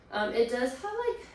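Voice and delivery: breathless, gasping between words; winded, catching her breath. Real, not acted. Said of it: "oh my gosh, I'm out of breath".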